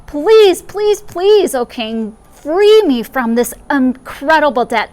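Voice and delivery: high, loud pleading please; a desperate debtor begging. Acted.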